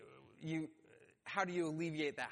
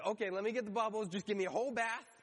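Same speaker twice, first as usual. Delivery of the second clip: quick, louder-edged mock eagerness; eager overcorrection; 3 semitones higher, 3 dB louder, faster than usual. Peter blurts to Jesus about a bath, mock eager. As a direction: imitate someone rushing to go all in.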